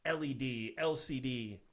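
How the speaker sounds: mildly sarcastic list of gadgets; retold sarcastic patter. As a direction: reel off the letters with mock importance. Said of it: "kind of sarcastically being like".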